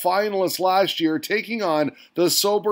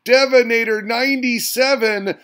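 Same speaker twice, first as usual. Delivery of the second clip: hyped name call; 4 semitones higher, 3 dB louder than usual. Real, not acted. Host crowning the winner, calling his name out big. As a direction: boom out the champion's name.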